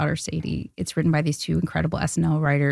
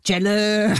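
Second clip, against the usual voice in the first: Adam Sandler voice; 3 dB louder than usual. Retold or imitated. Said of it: "It's the real Adam Sandler voice?".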